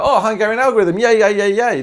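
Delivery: hammed-up glee over an easy method; mock delight. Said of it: "I go".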